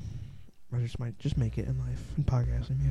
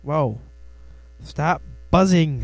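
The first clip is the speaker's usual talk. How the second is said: loud, slow, irritated order; annoyed shout; 4 semitones higher, 7 dB louder, slower than usual. Real, not acted. Podcaster yells at a buzzing insect, annoyed shout. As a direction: shoo the buzzing bug away.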